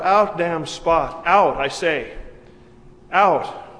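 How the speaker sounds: loud, slow, drawn-out dramatic command; acted cry out. Preacher voicing Lady Macbeth rubbing her hands, crying out. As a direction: cry it out forcefully, each phrase weighted. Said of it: "She yells out".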